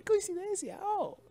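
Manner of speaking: high, sarcastic gasp of surprise; mock surprise. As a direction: play fake astonishment up high.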